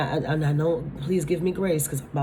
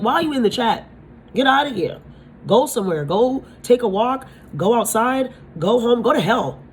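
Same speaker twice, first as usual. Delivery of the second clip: loud, higher, fed-up telling off; exasperated shout; 6 semitones higher, 4 dB louder than usual. Retold or imitated. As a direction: shoo the killjoy away, loud and high. Ranting at imagined killjoy.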